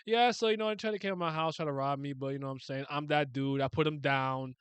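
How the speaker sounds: lightly voiced laid-back tough guy; casual, unbothered brag; mock calm dude. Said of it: "look at him calmly being like".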